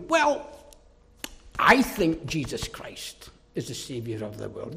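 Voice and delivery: low, hushed, apologetic voice mocking a weak preacher; mock timid preacher. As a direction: mimic a preacher afraid to offend.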